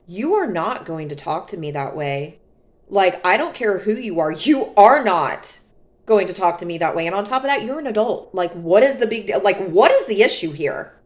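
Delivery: level, steady, firm; calm firm reply. Retold or imitated. To the raging driver, calm and firm. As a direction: hold your ground calmly. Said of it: "still calm".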